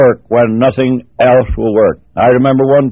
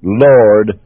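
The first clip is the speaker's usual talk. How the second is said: heavenly language; 4 semitones lower, slower than usual. Acted. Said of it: "in the heavenly language".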